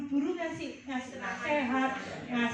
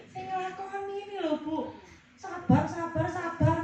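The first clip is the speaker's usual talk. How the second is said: louder, sarcastic "Sabar, sabar, sabar"; mocking "sabar"; 2 semitones higher, 3 dB louder than usual. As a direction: mimic the counselor scornfully. Client mocks counselor's empty advice.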